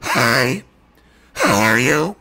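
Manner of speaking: honking low goose call; goose-call honks shaped into words. Shown as a demonstration. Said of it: "I can do a goose call".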